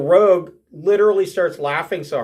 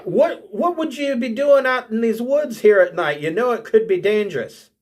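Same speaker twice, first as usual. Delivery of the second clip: dwarf voice pitched up, easing down; 5 semitones higher than usual. Acted. Dwarf questioning a stranger in the woods at night, high lilt. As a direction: question her as a lilting dwarf. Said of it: "And she says".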